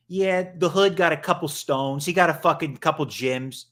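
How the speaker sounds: badly faked Boston accent; attempted Boston accent. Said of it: "that's not even a Boston accent".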